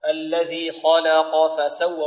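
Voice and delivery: slow recitation, heavy KHA and QAF, light LAM in "خلق"; measured "خلق": thick first and last letters, thin middle. Shown as a demonstration. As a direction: draw it out, keeping only the "ل" of "خلق" light. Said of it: "فنفخم الخاء ونرقق اللام".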